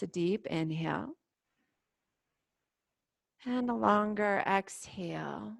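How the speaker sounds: calm, unhurried meditation guide with long pauses; guided meditation. Real, not acted. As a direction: gently lead them into stillness and breath. Leads guided standing meditation.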